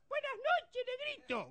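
very high squeaky greeting; squeaky Pito voice. Retold or imitated. Adalberto greets Cardonga in his squeaky voice, high. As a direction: pipe it out like a tiny voice. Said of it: "la voz de Pito".

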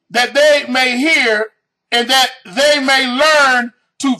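slow deliberate reading, stranger lifted; read real slow. Shown as a demonstration. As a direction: draw it out for the slow listeners. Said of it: "I gotta read that again real slow".

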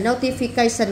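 notification with the weight on CA; notification, CA stressed; stress on fourth syllable. Shown as a demonstration. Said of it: "nhắm ông bốn luôn".

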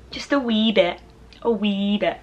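playful little Scottish accent. Shown as a demonstration. Vlogger showing off the accent picked up from a best friend, Scottish accent. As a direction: try on a Scottish accent briefly. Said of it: "can do a Scottish accent".

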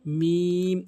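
মিম drawn out into a hum; lips pressed. Shown as a demonstration. Teacher models the letter, long hummed মিম. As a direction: close dry parts of both lips on মিম. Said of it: "এভাবে উচ্চারণ করতে হবে".

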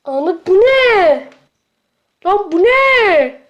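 stretched-out horrified question; slow shocked disbelief. Real, not acted. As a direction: recoil slowly at something gross. Shocked at strange food.

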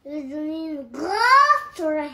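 English-accented French and Arabic. Real, not acted. Child repeating mum's playful threat in an English accent. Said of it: "vous avez vu les filles comment ils parlent".

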